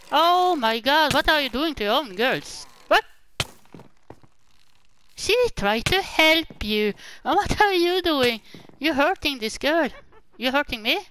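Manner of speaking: loud, high scolding; mock outrage. Shouting at the villagers for hurting their own girls. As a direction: scold them like a shocked parent. Scolding game characters loudly.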